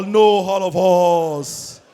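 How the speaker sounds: slow, loud "hall of horse" with added H's; Yoruba H factor. Acted. Yoruba lady correcting him, H-heavy "hall of horse". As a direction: stress the H in "hall" and "horse", very drawn out. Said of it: "They're proud of their H factor".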